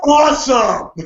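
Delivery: quick joyful yelp of Awesome; excited burst. Retold or imitated. Thrilled reaction to Rusev.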